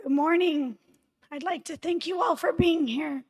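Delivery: speaking with a hoarse, worn voice; hoarse throat, push through it. Real, not acted. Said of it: "I apologize for my hoarse voice".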